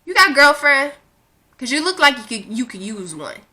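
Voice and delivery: flirt with a stranger, half teasing; playful pickup voice; flirty pickup line. Retold or imitated. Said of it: "'cause I'ma tell you".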